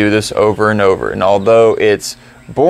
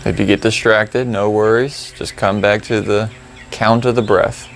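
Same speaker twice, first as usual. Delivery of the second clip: calm, unhurried reminders; gently steer them back to the breath; guided meditation; 8 dB quieter than usual. Real, not acted. Guides the silent practice.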